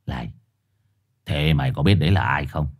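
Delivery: low hushed gruff voice; gruff dog turning secretive. Acted. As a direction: lean in, ominous. Dog asks, lowered voice.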